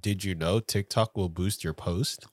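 a hint of a hyped podcast hook voice; podcaster voice. Shown as a demonstration. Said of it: "if you talk like this".

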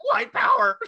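shouted goose battle cry. Retold or imitated. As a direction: yell it like a charging goose. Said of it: "That's my goose voice".

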